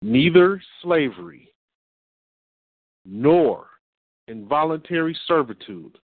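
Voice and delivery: careful, deliberate reading in short phrases. Shown as a demonstration. Reading a law aloud for listeners to catch, careful and spaced out. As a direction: read it out carefully with pauses between phrases. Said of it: "let me read it to you again and listen carefully".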